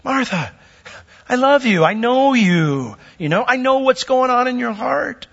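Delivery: tender friend. Retold or imitated. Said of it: "it's a friend".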